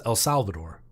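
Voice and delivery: anglicized El Salvador; El Salvador in an English-speaking accent. Shown as a demonstration. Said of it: "The whole world says".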